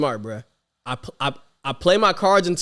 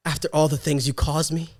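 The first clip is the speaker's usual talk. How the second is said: dramatic reproach, pausing between accusations; acted indignation. Teacher confronting the student who tormented her, acted indignation. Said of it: "I'm about to get in my acting bag".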